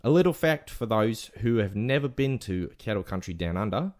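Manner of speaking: story read in put-on Aussie; Australian accent. Telling the lost-dog story on request, Australian accent. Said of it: "whole rest of the segment in Australian accent".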